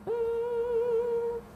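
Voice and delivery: high, held hum; humming. Real, not acted. Drawing along for viewers, idly humming high. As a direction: hum one long high note.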